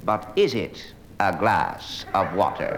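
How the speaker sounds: hammed-up philosophical musing on "is it a glass of water"; mock pondering student. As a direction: drag out "But is it a glass of water?" like a pretentious student questioning the obvious. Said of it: "he says".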